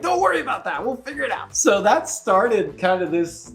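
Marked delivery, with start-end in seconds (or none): 0.0-1.6 breezy reassurance. Retold or imitated. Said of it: "And I'm like".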